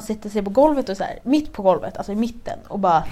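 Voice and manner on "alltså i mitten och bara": usual speaking voice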